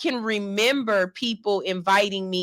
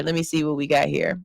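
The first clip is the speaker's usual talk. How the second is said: a quick, lower aside while scanning comments; lower, quicker repeat; 5 semitones lower, faster than usual. Real, not acted. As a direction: say it again lower and quicker, to yourself. Reading comments, says line twice.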